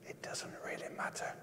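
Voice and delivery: whispered dismissively; hushed mock indifference; underplaying it. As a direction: shrink it to an offhand whisper. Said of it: "others who so underplay it as if".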